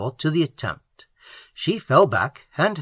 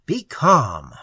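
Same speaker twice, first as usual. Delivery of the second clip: soothing, compassionate. Acted. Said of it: "in a voice soothing and compassionate".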